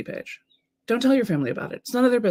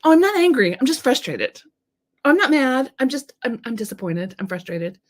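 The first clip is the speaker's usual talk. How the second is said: imitated protesting women; 7 semitones higher than usual. Coach imitates women denying they are angry, high mock protest. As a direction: mimic women denying their anger, starting high. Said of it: "it's a word I hear women say a lot".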